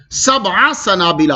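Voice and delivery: slow chanted Arabic; recited phrase. Acted. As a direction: recite it slowly. Recites verse phrase within tafsir.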